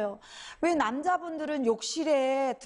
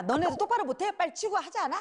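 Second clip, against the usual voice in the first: put-on snapping at kids; 4 semitones higher, faster than usual. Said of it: "막 승질을 내는 거죠".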